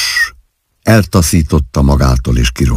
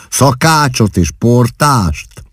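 high, slow, teasing echo; slow mocking question; playful mockery; 7 semitones higher, slower than usual. A narrator's reading. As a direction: draw it out mischievously. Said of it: "kérdi pajkos gúnnyal".

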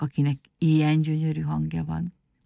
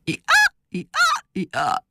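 donkey chorus; much slower than usual. A narrator's reading. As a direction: bray in rhythm after the conductor. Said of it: "utána énekelték persze csak így". (ütemes, magas szamárkórus)

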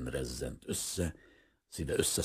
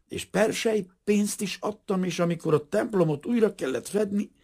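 higher, louder, earnest insisting; shocked protest; 13 semitones higher, 6 dB louder than usual. Acted. Appalled shopkeeper insisting to the priest, higher and urgent. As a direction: protest his good standing, aghast.

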